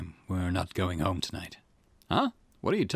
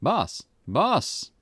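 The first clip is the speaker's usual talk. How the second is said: louder, higher call for attention; 8 semitones higher, 4 dB louder than usual. Acted. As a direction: snap him out of it. Calling out to dazed boss.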